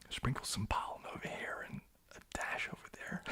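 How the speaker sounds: soft American-style character whisper; whispered character line. Acted. Streamer quoting their bee character to viewers, whispering. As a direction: whisper it like a film quote.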